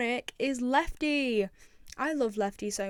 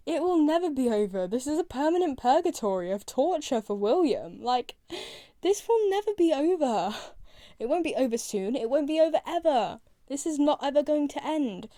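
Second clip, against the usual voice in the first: higher, louder, exasperated insistence; emphatic disbelief; 4 semitones higher, 4 dB louder than usual. Real, not acted. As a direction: protest it with mounting exasperation. Mock outrage at a comforting line.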